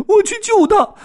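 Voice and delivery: very high, loud squeak; squeaking squirrel. Acted. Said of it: "松鼠吱吱叫".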